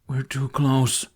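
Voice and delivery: slow, breathy whispered warning; a dragon's fearful whisper; breathed. Acted. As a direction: hush it out, dread in every word. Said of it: "Toothless breathed".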